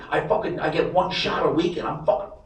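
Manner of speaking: hammed-up giddy dad bragging; imitating hyped dad. Dad voiced, pumped on meds.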